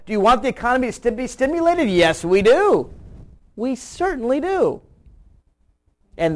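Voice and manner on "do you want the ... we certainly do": mock poll exchange. Host playing pollster and eager public, mock emphatic. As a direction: race the question, then land the yes. Acts out poll question and answer.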